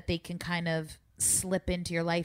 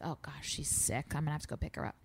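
soft, whispered worry to herself; worried whisper; 2 semitones lower, 7 dB quieter, faster than usual. Retold or imitated. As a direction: hush it like a private fear. Retold worried thought about daughter.

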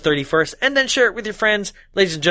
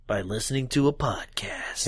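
whispering; 5 semitones lower, 8 dB quieter than usual. Acted. Joking aside about New Year's.

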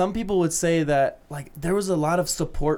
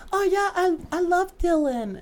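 put-on old soul poser; 14 semitones higher than usual. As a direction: gush like a fake fan. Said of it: "they're like".

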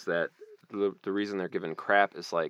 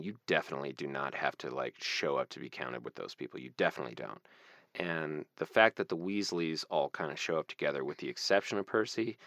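heavy moment; 2 semitones lower than usual. Real, not acted. Co-host putting out a message on family loyalty, heavy and earnest. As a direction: speak seriously, letting the voice settle. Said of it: "my heavy moment".

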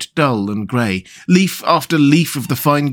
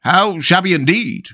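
higher, fawning yes-men echo; echoing councillors; 6 semitones higher than usual. A narrator's reading. Councillors agreeing with the mayor, higher fawning echo. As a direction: parrot the mayor eagerly. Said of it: "cried the town councillors".

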